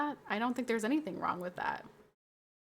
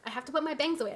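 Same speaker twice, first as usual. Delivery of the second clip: higher, louder, fussed repeat; worked-up repeat; 4 semitones higher, 3 dB louder, much faster than usual. Real, not acted. Streamer flustered at her own anger, fixing her hair, higher and louder. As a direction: say it again, flustered and heated. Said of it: "I'm getting so heated".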